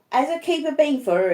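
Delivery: high, fearful asking; anxious question. Acted. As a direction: ask with lingering dread. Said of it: "he says".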